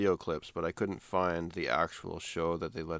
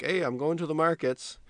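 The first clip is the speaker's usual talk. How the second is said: higher-pitched mock call from another room; imitated calling out; 8 semitones higher than usual. Retelling a wife at the back door, mock calling out. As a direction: imitate a wife calling out, without real volume. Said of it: "she yells out".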